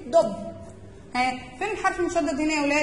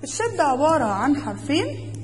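slow clear teaching. Shown as a demonstration. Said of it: "طب الشدة دي عبارة عن إيه؟".

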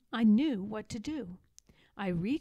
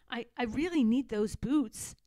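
reassuring. Acted. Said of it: "I said reassuringly".

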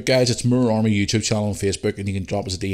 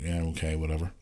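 dismissive; 5 semitones lower, 10 dB quieter than usual. Retold or imitated. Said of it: "and I'm like".

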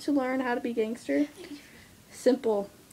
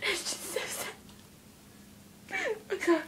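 mock crying; 8 semitones higher, 11 dB quieter, faster than usual. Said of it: "You'll have to excuse me".

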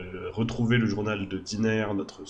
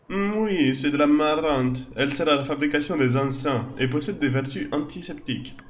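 lightly higher, gentle druid woman; elf druid voice; 5 semitones higher, 4 dB louder than usual. Acted. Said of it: "Diner et Jaira qui ont un peu des voix proches".

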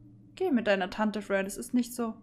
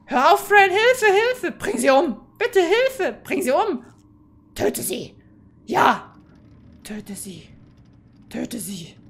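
loud, high shouts urging the kill; loud gleeful chant; egging on; 3 semitones higher, 8 dB louder, slower than usual. Real, not acted. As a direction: cheer on the murder, yelling. Streamer eggs on the killing.

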